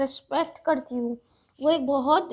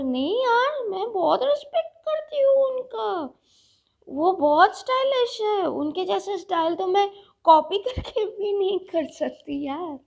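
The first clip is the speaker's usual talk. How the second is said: earnest protest; 4 semitones higher than usual. Real, not acted. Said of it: "किसी ने मुझे बहुत डांटा".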